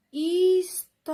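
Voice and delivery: história with TÓ drawn out, high and loud; stressed syllable demo. Shown as a demonstration. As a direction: hold and push the TÓ in história. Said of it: "qual é a sílaba mais forte".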